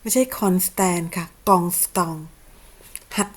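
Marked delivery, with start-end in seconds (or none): 0.0-2.2 not คอนสแตน but กองสตอง, French nasal vowels; correcting pronunciation. Shown as a demonstration. แก้การออกเสียง คอนสแตน เป็น กองสตอง. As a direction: contrast the wrong คอนสแตน with the right กองสตอง.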